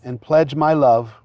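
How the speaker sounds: officiant feeding vows phrase by phrase; short phrases with pauses. Shown as a demonstration. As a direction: say each phrase, then pause for the repeat. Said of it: "repeat after me phrase by phrase".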